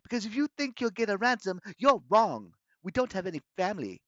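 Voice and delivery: put-on high, loud protest in a girl's voice; demanding girl. A narrator's reading. Bianca telling captor they have no family, high defiant protest. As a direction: argue back, pitched high. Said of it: "Bianca demanded".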